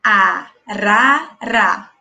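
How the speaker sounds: "arara" said very slowly, syllables pulled apart; teacher stretching "arara" so kids count syllables. Shown as a demonstration. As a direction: spell out "arara" aloud in slow beats. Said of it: "Olha só".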